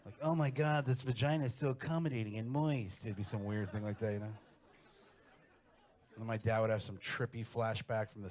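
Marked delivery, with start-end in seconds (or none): 0.2-3.0 high, loud fake gasp of desire; hammed-up porn actor. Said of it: "like this weird gay guy pretending to be straight".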